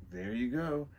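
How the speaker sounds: lightly put-on Scottish accent. Villain owning up to a late arrival, Scottish accent. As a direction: speak in an unsure Scottish brogue. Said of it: "We're doing the Scottish accent again".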